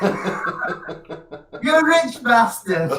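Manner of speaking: high, very drawn-out words through laughter; laughing tease. Real, not acted. Joking that his friend's shed beats his house, laughing. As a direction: laugh the insult out fondly.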